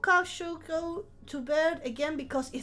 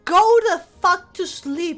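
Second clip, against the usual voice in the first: mock yell; 4 semitones higher, 8 dB louder than usual. Yelling at viewer to sleep.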